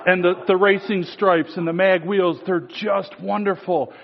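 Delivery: a hint of a syrupy flatterer laying it on; gushing flatterer. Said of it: "I'm contextualizing".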